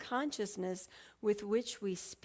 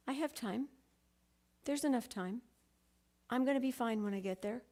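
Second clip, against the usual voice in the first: self-reassurance. Retold or imitated. Switching to new self-talk about having time, acted self-reassurance. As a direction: gently talk yourself down, pausing between thoughts.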